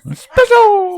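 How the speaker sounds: very high, loud cartoon squeal; overacted anime dub. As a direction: screech it like an anime sidekick. Repeating espresso squeal joke.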